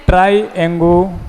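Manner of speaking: drawn out syllable by syllable; slow dictation. Shown as a demonstration. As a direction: spell out the word slowly in chunks for a class. Teacher dictating a new term. (धीरे-धीरे, टुकड़ों में बोलकर)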